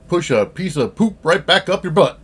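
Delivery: lightly put-on redneck twang; folksy country saying, a touch of redneck accent. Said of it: "I had to break out my redneck voice there".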